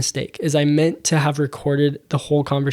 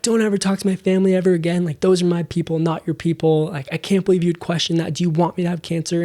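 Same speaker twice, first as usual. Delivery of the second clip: retold yelling; 3 semitones higher than usual. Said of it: "kind of yelled at me and freaked out".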